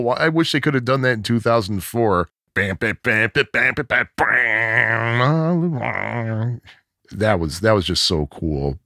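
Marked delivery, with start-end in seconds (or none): 2.5-6.6 mouthed fuzz bass riff, last note ringing; imitated bass riff. Showing co-host the riff, imitated fuzz bass.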